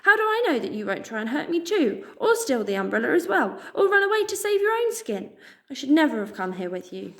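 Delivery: high, upset pleading voice, a little mouse scared and accusing; a scared little creature lashing out; frightened young Pip. Acted. Pip's frightened outburst.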